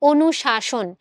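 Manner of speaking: অনুশাসন with both s letters as "sh"; identical sibilants. Shown as a demonstration. Teacher asking students to compare, অনুশাসন with two equal "sh"s. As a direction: make the two "sh" sounds of অনুশাসন match. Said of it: "দুইটা স এর উচ্চারণে কিন্তু কোনো পার্থক্য".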